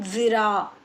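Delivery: ज़िरा with a "th" as in "this"; tongue under the teeth to start ज़िरा; careful "dhiraa" reading of ज़िरा; dental dh variant. Shown as a demonstration. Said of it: "इस तरीके से भी लोग पढ़ते हैं".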